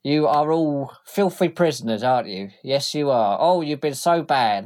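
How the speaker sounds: taunting the prisoners in a thug voice; mocking thug. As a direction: sneer at them like naughty kids. Stony Tim mocks prisoners.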